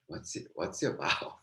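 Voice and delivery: hushed, curious voice; wondering whisper. Retold or imitated. Imagined onlookers puzzle about the preacher, whispered. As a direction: breathe it like people wondering.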